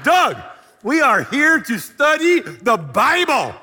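high, slow, emphatic yell; exasperated shout. Retold or imitated. Fed-up student scolding his lovestruck roommate, exasperated shouting. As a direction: holler each word at a hopeless roommate.

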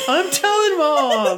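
high, slow singsong tattle; whiny tattling little sibling. Retold or imitated. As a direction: drag it out like a bratty kid.

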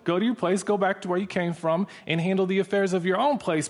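playfully voiced warning to move along; mock dismissive. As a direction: send a nuisance on his way, half in jest. Big schools brushing off the chaplain.

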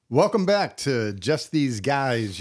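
slow smooth lounge-singer intro; lounge lizard voice. Acted. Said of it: "why do I adopt a lounge suit lizard voice".

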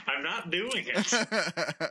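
drawn out, laughing, firm no; firm refusal. Real, not acted. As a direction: refuse slowly, half laughing.

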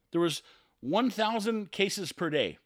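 ordinary talk

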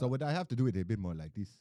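thicker put-on Nigerian accent. Shown as a demonstration. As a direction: try a heavier Nigerian accent. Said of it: "it's a bit thicker and faster".

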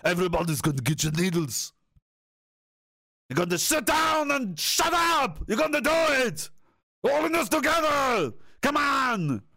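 a hammed-up action-hero rant; Arnold Schwarzenegger shouting. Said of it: "Arnold Schwarzenegger said that".

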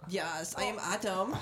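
light put-on German accent. Shown as a demonstration. Host introducing himself on the podcast, mock German accent. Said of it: "do it in a German accent".

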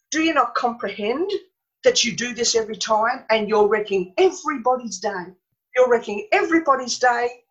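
mild mock telling-off, emphatic and insistent; retold scolding. Mother berating her small son at a party, retold as a mild scolding. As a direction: imitate an exasperated mother without really shouting. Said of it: "She was screaming at him".

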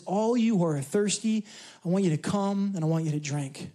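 the Lord gently inviting the thirsty to come. Acted. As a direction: offer it tenderly, like a gentle call. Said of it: "And he says it gently".

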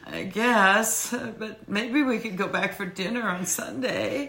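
put-on high, soft, hesitant little-boy whine; baby boy Brandon. Co-host mocking Brandon's reluctance to leave home, in a baby-boy voice. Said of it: "bless his little baby boy heart".

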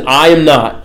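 "I" given weight before "am not"; stress on I. Retold or imitated. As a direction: answer firmly, leaning on "I". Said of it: "this puts the emphasis on I".

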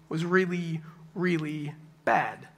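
"really, really bad" drawn out word by word; "really, really bad" in slow, separated words; slow emphasis on REALLY BAD. Real, not acted. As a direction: weigh down each word of "really, really bad" slowly. Stressing how bad the storm was.

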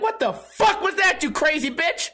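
high-pitched, incredulous mock outrage; appalled outburst. Classmate to squeaky sneezer, mock appalled outburst. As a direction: react in squeaky disbelief.

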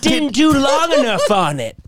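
high, laughing critic voice; laughing fan impression. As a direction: lecture them while cracking up. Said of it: "He goes, he goes".

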